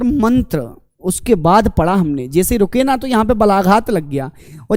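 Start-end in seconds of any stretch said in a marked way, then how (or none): 0.0-0.8 मंत्र sounded as a single unit, then stop; one-breath pronunciation. Shown as a demonstration. Teacher showing the first part of the split, one-breath pronunciation of मंत्र. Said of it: "एक बार में उच्चारण क्या निकला".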